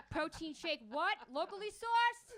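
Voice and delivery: high, slow, prissy question; mock posh question. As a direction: ask like a snobby foodie. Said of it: "I'm like".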